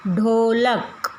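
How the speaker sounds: ढोलक drawn out syllable by syllable; slow teacher demo. Shown as a demonstration. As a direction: sound out each syllable slowly. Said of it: "teacher sounding out words".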